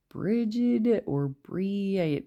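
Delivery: "Bridget or Bree" tried out slowly, drawn out; unsure pronunciation. Real, not acted. Card reader unsure of an old Irish name, saying "Bridget or Bree" slowly and haltingly. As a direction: feel your way slowly through "Bridget or Bree". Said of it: "I know I'm friggin' pronouncing it wrong".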